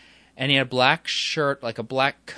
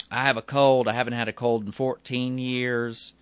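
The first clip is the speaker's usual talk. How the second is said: lightly imitated Southern stranger; southern accent; 3 dB louder than usual. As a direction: retell his words with a Southern lilt. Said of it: "He has this southern accent".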